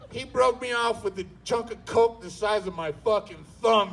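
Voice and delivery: ordinary talk, nothing marked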